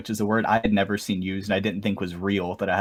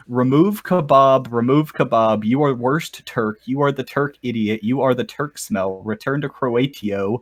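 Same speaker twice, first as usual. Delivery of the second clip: mock broken English. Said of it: "the official lyrics".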